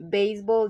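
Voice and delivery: first part of "Baseball" stressed. Shown as a demonstration. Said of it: "the stress is on the first part".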